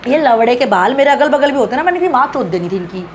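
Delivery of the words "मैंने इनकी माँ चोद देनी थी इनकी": angry outburst. Real, not acted. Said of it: "मुझे गुस्सा इतना आ रहा है".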